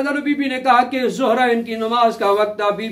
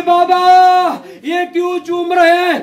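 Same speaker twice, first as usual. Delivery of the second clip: tearful question; 7 semitones higher, 5 dB louder than usual. Retold or imitated. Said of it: "बीबी रो कर कहती है".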